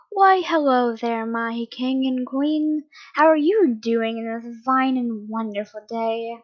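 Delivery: slow, drawn-out mock courtesy; mock-courteous greeting. Man greets captive king and queen, mock-courteous. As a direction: greet them with leisurely false politeness.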